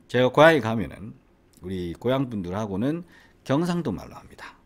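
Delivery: Gyeongsang dialect demo; 경상도 사투리. Shown as a demonstration. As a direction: put on a hometown Gyeongsang lilt. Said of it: "자, 한번 해볼까요?". (경상도 억양으로 시범 보이듯)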